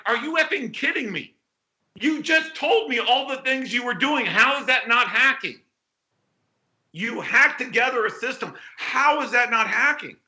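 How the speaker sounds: retold disbelief, pitched a bit up; dumbfounded. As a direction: challenge him as if you can't believe it. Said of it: "I looked at him dumbfounded".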